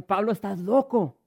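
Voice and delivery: high, loud, slowed shout of the accusation; mocking shout. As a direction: fling the insult out loud. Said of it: "y ¿qué le dice?".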